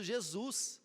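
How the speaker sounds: ordinary talk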